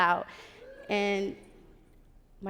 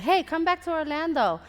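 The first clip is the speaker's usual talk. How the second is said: higher, louder friendly call; upbeat invitation; 8 semitones higher, 7 dB louder than usual. Retold or imitated. Friend phoning her to come back to Orlando, upbeat invitation. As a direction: imitate a friend's eager phone pitch.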